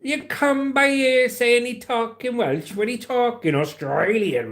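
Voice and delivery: high, sing-song Welsh lilt; Welsh accent. Shown as a demonstration. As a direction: put on an exaggerated Welsh voice. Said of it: "he'd be talking like this".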